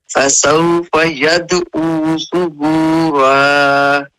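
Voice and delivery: يدعو with a bouncing echo on the dal; qalqala. Shown as a demonstration. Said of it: "यद पे फिर क्या है? कलकला है".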